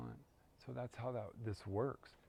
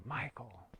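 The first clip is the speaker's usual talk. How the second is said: firm feminine call; 3 semitones higher than usual. Retold or imitated. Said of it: "firm, emphatic".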